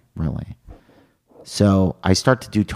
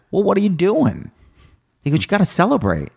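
high mock Ron White; 11 semitones higher than usual. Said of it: "He's like".

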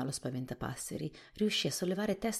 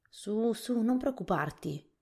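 higher, gentle comforting voice; consoling; 7 semitones higher, slower than usual. A narrator's reading. Scarecrow comforting the anxious Jack, consoling. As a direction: soothe a worried friend.

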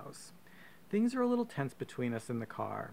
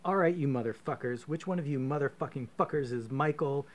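a mock yell, a touch louder, cursing at the room; 3 semitones higher, 4 dB louder than usual. Storming into the dining room, yelling at the family. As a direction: bursts in yelling at the whole family. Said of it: "So you yell".

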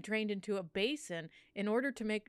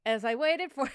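put-on Italian accent; 4 semitones higher, 5 dB louder than usual. Continuing the accented memoir.

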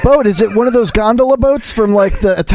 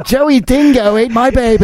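mock Australian; 3 semitones higher than usual. Parodying the dingo line.

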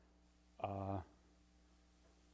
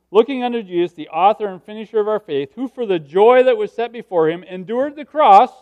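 emphatic scripture reading; 8 semitones higher, 15 dB louder than usual. Real, not acted. Reads the verse out emphatically.

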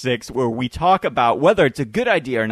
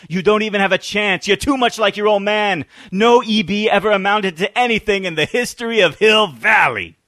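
stern principal voice; 3 semitones higher, 3 dB louder than usual. Retold or imitated. Scolding principal quote from the movie.

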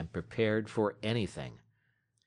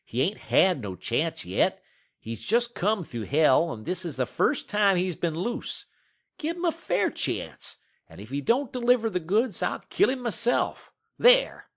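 higher, louder rough frontier man pleading hard; a dog musher arguing, pitched up and loud; Matt's rough voice; 8 semitones higher, 5 dB louder than usual. Acted. Dog musher pleading with Scott for the dog, raised and loud.

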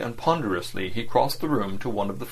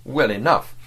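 contemptuous. Acted. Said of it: "he said contemptuously".

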